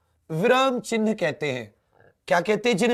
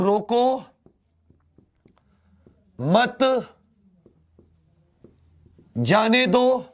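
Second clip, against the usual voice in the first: रोको, pause, मत, pause, जाने दो spaced out; long pauses; much slower than usual. Shown as a demonstration. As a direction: space every word out with long gaps. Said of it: "एक में लिख रहा हूं".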